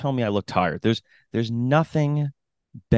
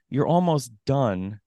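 slow, stretched-out mock reassurance; depressing encouragement; 3 semitones higher, slower than usual. Spectator to a runner who heard the bell, depressingly. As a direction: draw it out discouragingly. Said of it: "the tone kind of ruined it".

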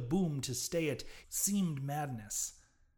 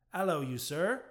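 louder hail; louder gruff hail; cried out; 3 semitones higher, 5 dB louder than usual. A narrator's reading. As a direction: call him out sharply. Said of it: "cried the captain".

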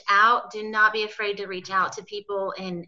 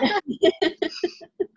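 shaky sigh; 10 semitones higher than usual. Real, not acted. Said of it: "I'm trying not to cry".

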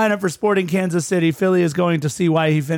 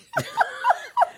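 a much higher squeal of laughter; 4 dB quieter than usual. Real, not acted. Cohost squealing with laughter at the accent. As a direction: let a squeaky laugh escape. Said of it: "What's with that voice?".

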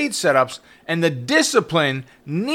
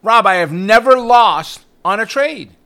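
mentor's boast; 5 semitones higher, 5 dB louder, slower than usual. Retold or imitated. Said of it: "who said to me".

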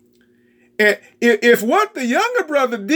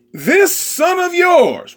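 this son of yours, shouted slow and high; bitter shout; 8 semitones higher, slower than usual. Acted. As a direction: spit it out at the father. Older son's bitter complaint.

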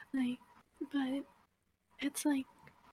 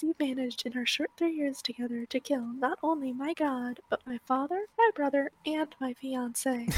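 brisk, slightly raised story-reading voice; reading aloud from a book; faster than usual. A narrator's reading. Reading an underlined passage to friends, read-aloud voice. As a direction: read the dialogue briskly, lightly acted.

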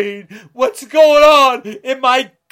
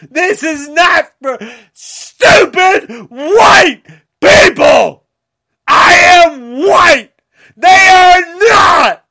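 crying shout; 3 semitones higher, 4 dB louder than usual. Real, not acted. Sobbing rant all through.

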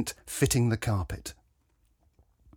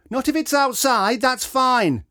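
much higher, a little louder call; calling over shoulder; 12 semitones higher, 4 dB louder than usual. A narrator's reading. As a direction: call it back while walking away. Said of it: "she called over her shoulder".

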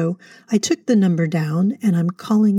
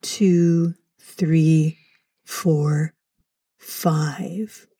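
slow calming count; much slower than usual. Acted. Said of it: "Slower, please, and breathe".

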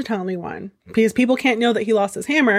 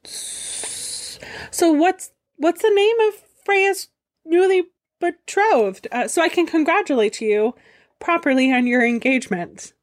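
flustered Loki; 3 semitones higher than usual. Acted. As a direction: stumble then cover with forced charm. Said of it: "Loki was not expecting that".

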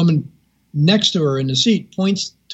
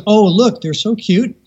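high-pitched retold cooing over cute pets; gushing; 6 semitones higher, slower than usual. Owner showing her gliders to seatmate, gushing. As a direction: imitate a delighted owner showing them off.

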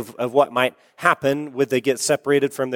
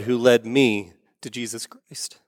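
hushed reveal; 4 semitones lower than usual. Retold or imitated. Man reveals he knew mother.

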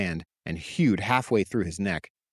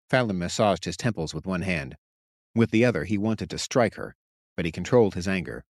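ordinary delivery, nothing marked

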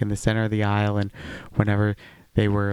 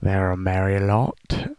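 put-on British accent; slower than usual. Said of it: "A J can't do a British accent".

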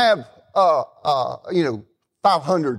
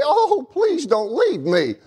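drawn-out, higher imitation of pleading; mock begging; 6 semitones higher, slower than usual. Teasing the in-laws who wanted him to stay, mock begging. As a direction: plead slowly, hamming up someone else's begging. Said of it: "Bonnie begged me".

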